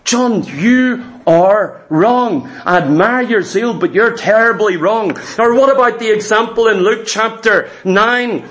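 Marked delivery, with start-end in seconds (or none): 0.0-5.2 voicing Jesus. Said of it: "Jesus says".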